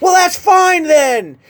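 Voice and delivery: loud, high, drawn-out mock yell; still yelling while accepting. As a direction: imitate someone shouting their acceptance, slow and high. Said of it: "she's still yelling at me".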